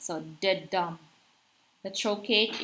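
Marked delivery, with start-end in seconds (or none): 0.0-1.0 de-dum, light first beat, dum stressed; iamb demo. Shown as a demonstration. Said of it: "the first one is unaccented, the second one is accented".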